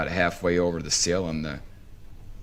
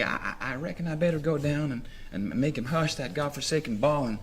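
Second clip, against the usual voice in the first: half-hearted; 6 semitones higher, 5 dB quieter than usual. Retold or imitated. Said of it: "in a half-hearted kind of way".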